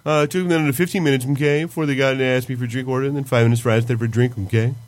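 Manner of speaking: lightly voiced school counselor, okay ticks; Mister Mackey. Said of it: "Are you doing Mister Mackey?".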